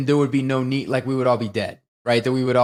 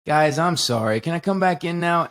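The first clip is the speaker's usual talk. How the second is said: flat, sheepish mock apology with a laugh creeping in; imitating a deadpan plea. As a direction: play it straight while he begs to come back. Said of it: "he's so, like, deadpan".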